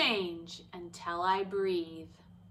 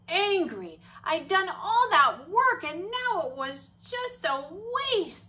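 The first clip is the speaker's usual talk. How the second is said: mild retold anger; 8 semitones higher, 7 dB louder than usual. Retelling feeling angry.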